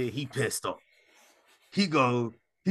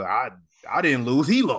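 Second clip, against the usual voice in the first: quoting Roman Reigns; 5 dB louder than usual. Retold or imitated. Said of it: "like Roman Reigns said".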